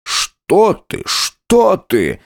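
a flustered husband backpedalling; startled groom. A narrator's reading. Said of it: "испугался Николай Степанович".

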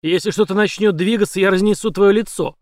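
громко, выше, с нажимом на твоё; грозит убить; угроза. A narrator's reading. Угроза пистолетом. (громкая угроза)

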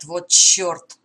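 loud sudden curse; exclaimed curse. Acted. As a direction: blurt it out in alarm. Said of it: "воскликнул капитан".

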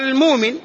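المؤمن with the hamza dropped; hamza softened to waw. Shown as a demonstration. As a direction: say المؤمن as "al-mūmin", with no glottal stop. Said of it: "فيقال".

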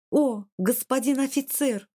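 high, hammy stage cry; theatrical exclaim. A narrator's reading. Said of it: "театрально воскликнула девушка". (театральное восклицание)

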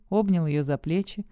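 ordinary delivery

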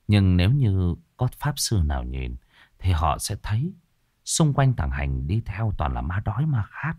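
usual speaking voice

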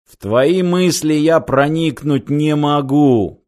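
slow looming machine voice; monster voice. Acted. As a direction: speak slowly as a towering machine. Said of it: "проговорило нависшее над напарниками механическое чудовище".

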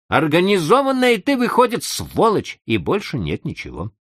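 a lightly voiced irritated chief; scolding boss. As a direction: nag him like a fed-up boss. Boss scolds subordinate, story figure.

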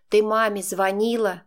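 ordinary delivery, nothing marked

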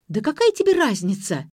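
put-on a girl snaps at a nosy caller, flaring up. A narrator's reading. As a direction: flare up at the pestering caller. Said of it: "вспылила Ксения".

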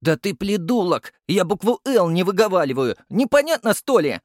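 put-on high, loud, lisping child yell; furious lisping kid yelling at the captain; yelling toddler. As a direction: scream back at the adult. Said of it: "заорал я в ответ".

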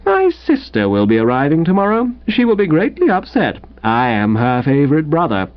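patronizing invalid rival. Acted. Bedridden rival laying down terms to Wooster, lightly patronizing. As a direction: talk down to him from the sickbed.

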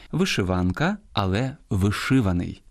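вишиванка on -ван-, але вишиваний on -ши-; literary stress contrast. Shown as a demonstration. Host contrasts two words, stressing -ван- in вишиванка and -ши- in вишиваний. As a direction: move the weight back from вишиванка's -ван- to вишиваний's -ши-. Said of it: "в літературній мові".

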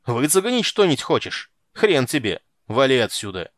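furious rough commandant yelling; angry shouting. A narrator's reading. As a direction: yell him out the door. Commandant yells at Geralt.

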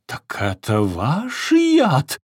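slow, loud, threatening question; menacing. A narrator's reading. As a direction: loom over him accusingly. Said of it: "угрожающе навис". (угрожающе, медленно и громко)

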